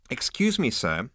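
high then cold clipped reply; icy insect receptionist. Acted. Insect receptionist coldly answering Zaphod, icy. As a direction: freeze him out politely. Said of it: "said the insect icily".

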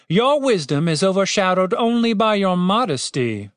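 high-pitched mock admiration; sarcastic praise. A narrator's reading. Captain to the boasting cleric, sarcastic.

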